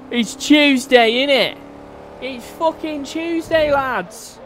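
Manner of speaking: put-on high, slow made-up Scouse-ish accent on "It's fucking Tuesday, lads"; made-up British accent. Streamer to chat, joking in a made-up British accent. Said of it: "I don't even know what accent that was from the U K".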